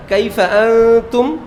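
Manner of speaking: imitating how Arabs say কাইফা আনতুম; Arab pronunciation. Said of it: "ইরফা সহ বলে".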